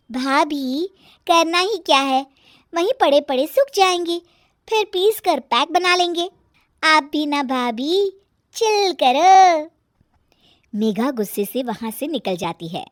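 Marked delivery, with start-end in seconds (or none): 0.1-9.7 put-on high, carefree young woman; pitched-up cheeky reply; sister-in-law, flippant. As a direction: brush off the scolding, stretching the last words.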